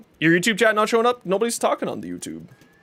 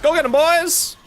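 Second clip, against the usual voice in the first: excited cheering; 8 semitones higher than usual. Real, not acted. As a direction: cheer the team on. Cheering on teammates.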